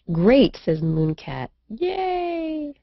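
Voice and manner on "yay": ordinary delivery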